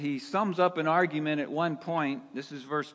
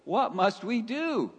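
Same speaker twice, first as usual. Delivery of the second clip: What must WE do, with WE pitched high and leaned on; stress on WE; 6 semitones higher than usual. Shown as a demonstration. Pastor shows the congregation where the stress falls, stress on WE. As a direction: hit WE to show the focus is on them. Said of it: "It's on them".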